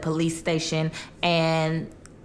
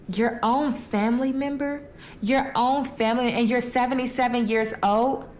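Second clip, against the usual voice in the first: higher-pitched, indignant rhetorical questions; outraged disbelief; 4 semitones higher than usual. Real, not acted. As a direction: rise in pitch, appalled that family did this. Teller outraged at grandson's crime.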